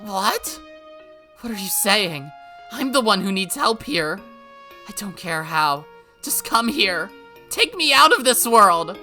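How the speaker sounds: loud, high, demanding; panicked anger. Acted. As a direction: snap at her to save you. Rika angrily demands rescue.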